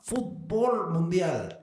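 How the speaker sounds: "Fútbol Mundial" with "Fútbol" stressed on BOL; tilde on the O. Shown as a demonstration. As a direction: lean hard on the last syllable of "Fútbol". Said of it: "tenía tilde en la O". ("Fútbol" acentuado en la O, fut-BOL)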